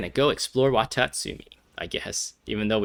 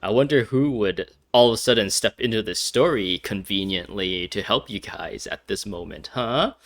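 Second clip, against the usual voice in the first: teasing, exaggerated lilt on the key words; mock wondering. Player ribbing the story about its convenient helper, mock wondering. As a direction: feign puzzlement, ending on a knowing "huh?".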